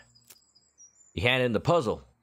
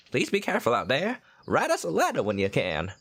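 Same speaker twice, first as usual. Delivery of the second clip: mom voice; 4 semitones higher than usual. Acted.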